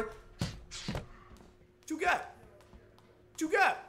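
very slow whispered taunt. Acted. Boxer taunting rival, slow whisper. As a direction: drag it out in a whisper.

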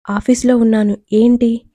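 usual speaking voice

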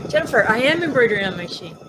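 announcing to viewer. Real, not acted. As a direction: tell the viewer directly and brightly. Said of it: "You tell her".

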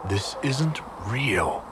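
slow, soft, stunned realization; a quiet, slowed dawning that none of it is real; hushed disbelief. Acted. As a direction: say it under your breath as it sinks in. Realizing it was a dream.

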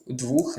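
двух with an У vowel in place of О; wrong form with У. Shown as a demonstration. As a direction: cite the mistaken двух, sounding У. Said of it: "Двох неправильно". (помилкове двух, з У замість О)

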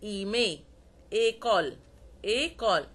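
إيمي and إيكول begun on "ay", not "euh"; closed E. Shown as a demonstration. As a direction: say إيكول with a clear French é. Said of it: "لا، ما بقولش أو".

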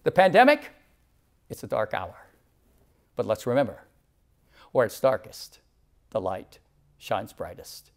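gentle hushed farewell; soft closing. Real, not acted. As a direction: bring it down to a hushed blessing. Closing sermon benediction.

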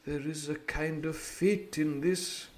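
slow, musing doctor; thoughtful observation. Acted. Doctor muses on Jim's luck, slow thoughtful. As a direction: muse on fate slowly. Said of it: "he observed".

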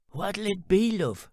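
lightly voiced country stall lady; chicken lady. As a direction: play the brisk old stallholder. Chicken lady greets narrator.

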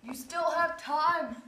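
faint dying gasps; wounded soldier gasping. Acted. Dying melodrama from smell.

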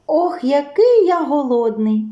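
вищий голосок голодного мишеняти; легенько пропищи, жаліючись на голод; писклява скарга. A narrator's reading. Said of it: "пищить круть". (голодне мишеня попискує)

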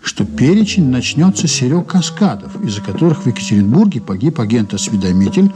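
calm narrator voice over music; story narration. A narrator's reading. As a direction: tell it as the narrator looking back. (спокойное повествование от рассказчика)

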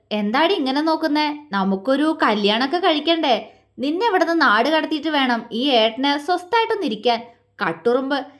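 a lightly teasing big brother; mischievous teasing. Acted. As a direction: needle the little sister playfully. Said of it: "കുസൃതിയോടെ പറഞ്ഞു". (കുസൃതിയോടെ കളിയാക്കൽ)

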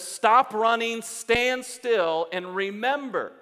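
emphatic command. Acted. God telling a runner to stand still, emphatic command. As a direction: issue it as a forceful order.

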